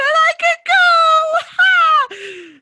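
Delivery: high, loud squeal of triumph; re-enacted elation. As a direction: squeal it out, soaring way up in mock-teen glee. Teen thrilled at getting permission.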